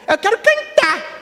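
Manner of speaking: put-on high, slow child's plea; high kid's insistent singsong; little boy voice. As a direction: drag it out like a small kid. Boy uses the code word.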